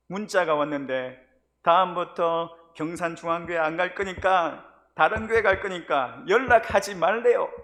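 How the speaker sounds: alarmed report. Retold or imitated. District leader phoning the pastor with bad news, alarmed.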